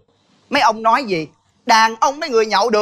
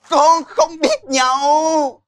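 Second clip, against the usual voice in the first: tearful; 4 semitones higher, much slower than usual. Acted. Wife protesting tearfully.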